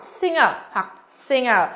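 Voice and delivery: "singer" slowly, twice, with NG and no hard G; singer, two accepted ways. Shown as a demonstration. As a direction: say "singer" as sing-er, both variants. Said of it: "Singer hoặc singer đều được".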